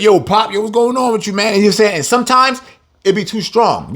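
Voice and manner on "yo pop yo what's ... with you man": a lightly raised greeting voice; lightly voiced friend asking what's up; street brother greeting. Brothers greeting the preacher, lightly raised and casual. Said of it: "other brothers come up to me like".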